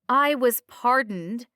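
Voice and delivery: high, loud, slow insistence; indignant protest. A narrator's reading. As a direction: insist on it loudly and slowly. Bound woman protests her innocence.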